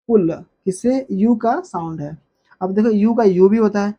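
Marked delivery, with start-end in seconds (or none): 0.1-0.3 "पुल" with a short, sudden u; short u, jerked. Shown as a demonstration. Teacher drilling the small u sign, "पुल" with a jerk. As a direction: snap through the short vowel in "पुल". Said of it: "झटके पड़ रहा है ना".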